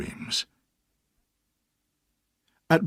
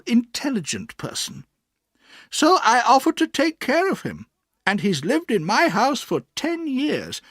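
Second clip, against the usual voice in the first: put-on high, firm old-lady voice; high, earnest old aunt; 12 semitones higher, 6 dB louder than usual. A narrator's reading. Aunt tells the boy about Mister Dick, earnest and firm. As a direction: stand up for her friend.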